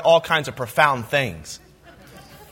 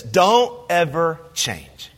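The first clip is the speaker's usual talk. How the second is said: drawn-out quote; 3 semitones lower, much slower than usual. Retold or imitated. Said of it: "popular things for high school students to say".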